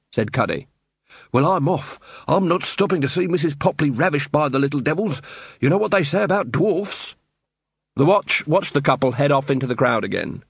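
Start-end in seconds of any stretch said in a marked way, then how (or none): 1.3-7.2 flustered grocer. Acted.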